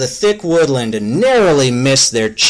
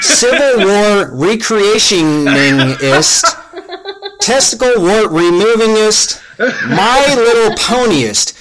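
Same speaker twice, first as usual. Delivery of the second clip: laughing through a list; 7 semitones higher than usual. Real, not acted. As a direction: rattle it off while cracking up. Absurd list, escalating with laughter.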